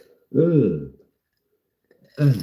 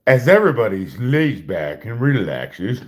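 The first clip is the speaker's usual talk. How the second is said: much higher and louder, bursting into laughter; breaking character; 8 semitones higher, 8 dB louder than usual. Real, not acted. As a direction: lose it mid-line. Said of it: "frickin' broke character".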